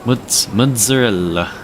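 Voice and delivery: slow put-on New York Italian "mozzarella"; New York Italian accent. Streamer practising the TikTok kid's word, New York Italian accent. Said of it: "New York accent with the Italian accent".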